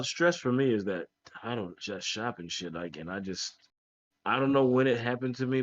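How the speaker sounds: muffled mic, like underwater. Real, not acted. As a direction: sound muffled, far behind the mic. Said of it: "You're, you're muffling".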